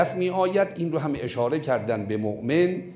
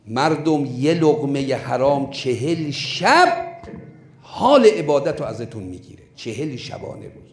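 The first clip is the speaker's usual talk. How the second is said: preaching at force. Real, not acted. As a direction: drive the warning home. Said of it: "warns the congregation".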